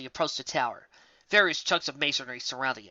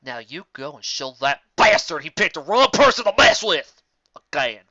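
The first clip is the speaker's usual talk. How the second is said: rallying; 8 dB louder than usual. Acted. Rallying his wife.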